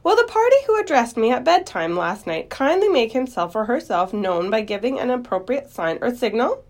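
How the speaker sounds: high, formal public announcement; starts loud and high, then eases slightly; loud, firm voice. Acted. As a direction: project like an official making an announcement. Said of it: "said in a loud, firm voice".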